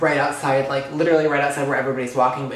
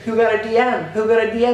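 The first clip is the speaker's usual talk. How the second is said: high, louder group-chat frenzy; pitched-up nosy excitement; mock excited clamor; 7 semitones higher, 5 dB louder, faster than usual. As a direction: imitate friends all demanding to know. Imitating friends buzzing in group chat.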